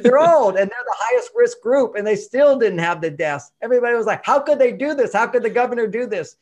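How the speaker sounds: high, loud, laughing disbelief; excited rant. Real, not acted. To the host about Florida, amused outrage.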